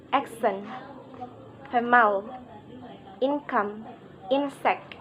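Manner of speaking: accent, female, income, insect with strong first syllable and clear second vowel; word list accent, female, income, insect, front-stressed with lighter second beat; primary-secondary stress. Shown as a demonstration. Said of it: "primary stress on the first syllable and secondary stress".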